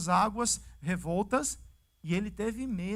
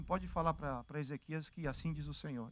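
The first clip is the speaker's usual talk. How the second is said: voice of God; 6 semitones lower, 11 dB quieter than usual. Retold or imitated. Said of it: "Deus fala assim".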